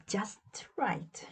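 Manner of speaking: soft whispered approval. A narrator's reading. Amelia checks the pie, whispering. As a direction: breathe it with satisfaction.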